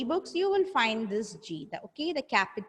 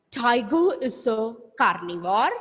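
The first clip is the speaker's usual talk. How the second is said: teacher modelling, rising at the end; repeat-after-me; 4 dB louder than usual. Shown as a demonstration. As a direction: lead the class in repeating, measured and clear.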